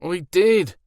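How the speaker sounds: high, loud Irish whine; whining protest. A narrator's reading. Werewolf whines in protest to Alora in Irish accent. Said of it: "he whined in protest".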